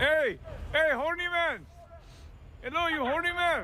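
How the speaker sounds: very high, shrill-pitched caricature voice; a hammed-up, crude comic caricature; high squealing mock call; mock stereotype voice.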